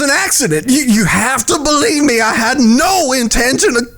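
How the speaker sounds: tearful pleading. Acted. Begging, voice breaking.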